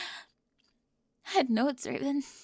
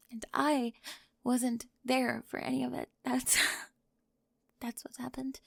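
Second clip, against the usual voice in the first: mostly whispered, breaking; shaky confession. Acted. Spring explaining to Raven and him, near tears. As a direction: confess it through held-back tears.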